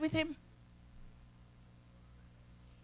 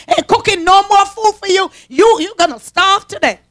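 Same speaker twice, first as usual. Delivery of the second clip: indignant Mary. Retold or imitated. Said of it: "Mary said".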